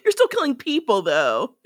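high, gushing mock praise that drops flat at the end; mock gushing Elena. Co-host mocking Elena swooning over Damon, high and gushing. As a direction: coo it, then deadpan the last word.

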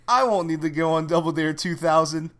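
high mock tough guy threat. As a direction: growl it like a movie villain with a gun. Pulls a napkin like a gun.

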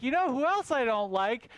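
a mildly put-on complaining bug; ranting moth. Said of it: "And he's like".

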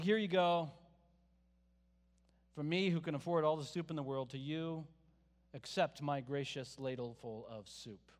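mock lofty patronizing tone, slowing down at the end; condescending. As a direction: hand it down like a gracious favor, lightly hammed-up. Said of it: "it's very condescending".

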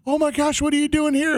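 high-pitched, gushing retold fan; hammed-up excited recognition. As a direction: imitate a starstruck man telling his wife. Retold fan meeting his idol.

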